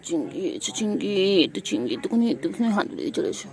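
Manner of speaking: loud call across the room. Real, not acted. Owner calling her pet Chingri to come back, loud call.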